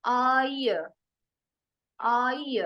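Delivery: "आई" drawn out with a final schwa; triphthong demo. Shown as a demonstration. Teacher showing a triphthong, "आई" ending in "अ". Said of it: "अभी आ गई है ये वाली sound".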